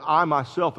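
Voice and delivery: "I myself" given firm, even weight; stress on I MYSELF. Retold or imitated. Preacher explaining Paul's wording to the church, stress on "I myself". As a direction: lean on both words of "I myself". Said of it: "it's an emphatic way".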